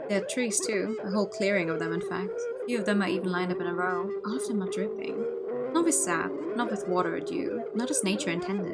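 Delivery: measured read-aloud of inner monologue; story narration. Acted. Player reads the hero's dreamlike inner monologue, story narration. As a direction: narrate it as the dazed protagonist.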